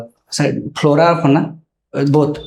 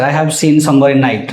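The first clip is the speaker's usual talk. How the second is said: says it with a small laugh; amused, chuckling through it. Real, not acted. Candidate laughs at own answer.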